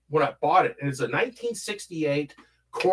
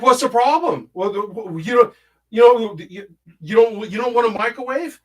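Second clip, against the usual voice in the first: imitated indignant relatives, loud and higher; mock indignation; 7 semitones higher, 5 dB louder than usual. Half-brother challenging him over the microwave, mock indignant. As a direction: act out affronted gift-givers, stumbling over it.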